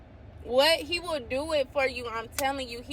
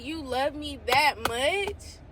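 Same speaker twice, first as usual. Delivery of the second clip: slow awed question; 3 semitones higher, slower than usual. Real, not acted. Overwhelmed by God's love.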